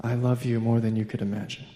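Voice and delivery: low, soft declaration of love; gentle God voice. Retold or imitated. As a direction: speak tenderly, as a loving Father. God speaks tenderly to the dad.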